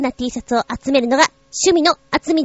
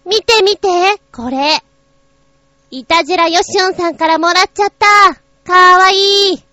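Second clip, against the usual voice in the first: excited; 7 semitones higher, 6 dB louder than usual. Real, not acted. Excited showing off a gift.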